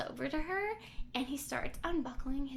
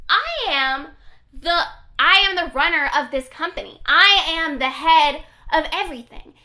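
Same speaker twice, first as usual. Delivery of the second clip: loud, imperious acted outburst; tantrum-throwing boss; 2 semitones higher, 14 dB louder than usual. Company head pulling rank on an employee, mock angry shouting. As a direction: imitate a self-important boss blowing up. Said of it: "letting him throw a temper tantrum".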